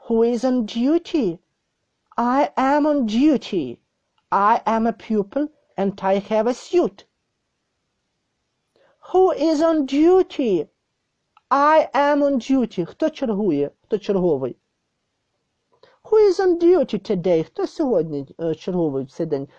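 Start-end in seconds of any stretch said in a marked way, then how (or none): 0.1-12.8 higher, clear teacher's read-aloud of a short dialogue; model reading. Shown as a demonstration. 16.0-17.4 model reading. Shown as a demonstration. Teacher models question.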